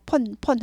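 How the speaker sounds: 폰 with one plain short o; 폰 with p and no glide; mimicked Korean 폰. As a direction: imitate the Koreanized 폰. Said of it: "우리말 흉내 내라고".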